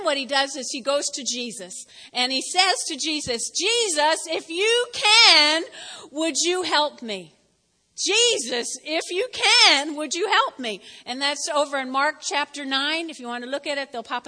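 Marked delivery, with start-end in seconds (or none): 3.5-7.3 slow, pleading cry for help; desperate plea. Retold or imitated. Desperate father begging Jesus for help, pleading. 8.0-10.8 slow, pleading cry for help; desperate plea. Retold or imitated. Desperate father begging Jesus for help, pleading.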